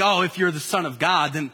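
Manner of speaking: mildly snide challenge, dropping low at the end; understated mocking dare. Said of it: "like, snidely way".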